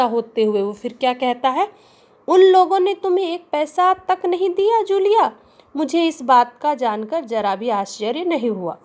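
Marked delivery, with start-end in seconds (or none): 2.3-8.8 high, loud outraged question; trembling with rage. Acted. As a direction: shake with anger as you ask. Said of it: "क्रोध के कारण कांपते हुए".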